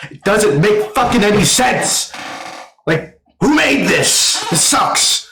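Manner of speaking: high-pitched, exasperated outburst; exasperated rant. Real, not acted. Exasperated rant about the film's pacing.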